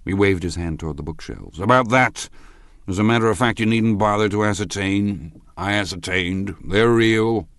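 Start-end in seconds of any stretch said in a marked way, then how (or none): 1.6-7.5 high, loud tipsy pronouncement; raised-pitch, emphatic drunken assertion; drunken man. A narrator's reading. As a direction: insist like an excited drunk. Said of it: "sitting somewhat drunk".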